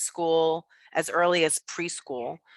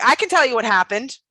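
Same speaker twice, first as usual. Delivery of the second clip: put-on eager kid; 8 semitones higher, 7 dB louder than usual. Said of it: "And I was like".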